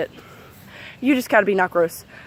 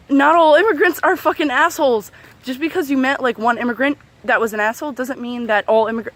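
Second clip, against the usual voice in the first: exasperated retort; 3 semitones higher than usual. Retold or imitated. Retelling an argument with mom, exasperated. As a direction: argue back in disbelief until words fail.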